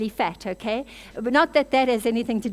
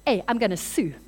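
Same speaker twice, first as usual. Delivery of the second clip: louder, indignant rant; mock offended outburst; 4 dB louder than usual. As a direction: play the huffy churchgoer storming off. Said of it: "she walks out of the church offended".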